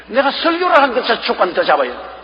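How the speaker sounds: ordinary delivery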